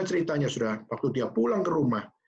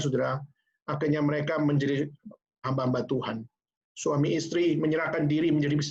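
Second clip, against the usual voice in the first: normal talking voice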